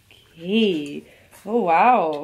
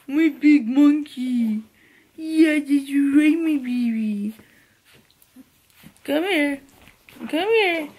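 puppy talk; 4 semitones higher, slower than usual. Real, not acted. Cooing and calling the puppy.

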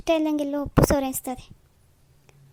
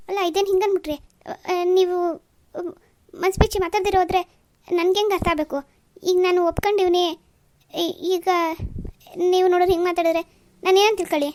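louder, higher, fast flustered protest; exasperated protest; 3 semitones higher, 4 dB louder than usual. Acted. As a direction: plead in exasperation, voice climbing. Suitor protests rude girl.

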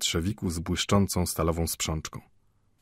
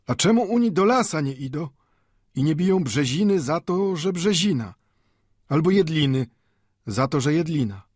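put-on higher-pitched old man, questioning; old Mendel arguing; 9 semitones higher, 4 dB louder than usual. A narrator's reading. Old Jew challenges the watchmaker's reasoning, questioning. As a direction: argue back in a high, sing-song storybook voice.

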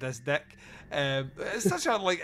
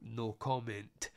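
slow, much softer offhand no comment; casual brush-off; 5 semitones lower, 9 dB quieter, much slower than usual. Retold or imitated. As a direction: toss it away like it's nothing. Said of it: "shuts them off with a casual".

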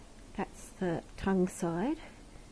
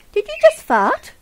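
startled, much higher and louder; surprised; 19 dB louder than usual. Real, not acted. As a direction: blurt it out in shock. Hears a noise, reacts.

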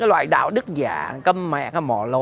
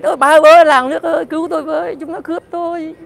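much higher, hammed-up panicked yell for help; mocking victim screeching, much higher, loud at first; mock cry for help; 10 semitones higher, 5 dB louder than usual. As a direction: parody a robbery victim shrieking to the village. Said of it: "Chúng mày đã la lên".

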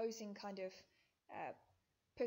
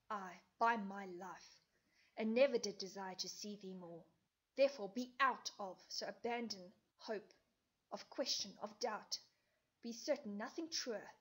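brutal Lysander; 3 dB louder than usual. Acted. Lysander rejecting Hermia, loud and cold. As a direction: hammer home that the love is dead.

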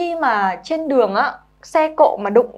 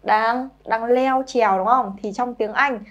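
normal talking voice

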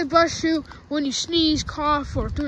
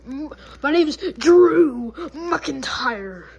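Drew McIntyre; 4 dB louder, slower than usual. Pretend. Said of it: "I don't got an accent".

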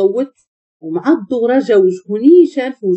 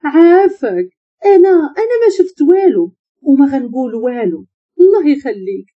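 higher, whimpering plea; tearful begging; 4 semitones higher than usual. Acted. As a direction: beg as if in tears, stretching the please. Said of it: "بدات كتبكي وكتقول له".

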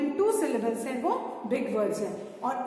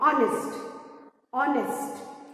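spoken out forcefully. Shown as a demonstration. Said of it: "जोर से आपको बोलना है".

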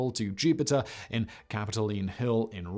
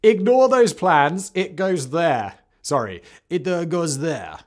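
put-on loud, bossy French accent; a frustrated Frenchman's French accent; 8 semitones higher, 9 dB louder than usual. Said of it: "I gotta do a French accent".

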